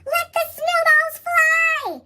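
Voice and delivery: slow, high, loud battle cry; yelled. A narrator's reading. Teacher launching the snowball fight, drawn-out yell. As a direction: draw it out like a rally call. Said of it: "and yelled".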